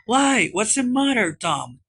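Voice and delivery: high start, falling away; worried, startled question; anxious. A narrator's reading. Sid looks into Tom's face, anxious. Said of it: "looked in his face anxiously".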